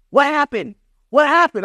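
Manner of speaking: high, urgent imitation of a worried dad; nervous dad. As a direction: ask like a dad too nervous to watch. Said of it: "He was like".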